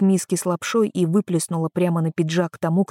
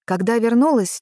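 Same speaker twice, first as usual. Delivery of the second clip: ordinary delivery, nothing marked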